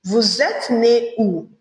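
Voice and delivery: vous êtes né où said slowly, each word clear; slow model phrase. Shown as a demonstration. Teacher models vous êtes né où slowly for the class. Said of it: "you say".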